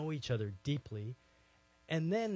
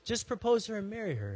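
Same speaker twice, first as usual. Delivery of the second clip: higher, louder, fast and pressing; brisk insistent command; 8 semitones higher, 4 dB louder, faster than usual. Retold or imitated. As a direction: rush the order through. God repeats the instruction.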